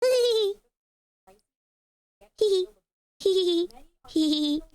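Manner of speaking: high little giggles. Real, not acted. Giggling at the ugly figure with friends.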